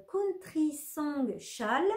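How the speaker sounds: Country Song said with a heavy French accent, slow; French-accented English. Real, not acted. Knitter naming her shawl pattern for viewers, in a French-accented English. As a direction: read the English title the French way, slowly. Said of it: "avec mon accent".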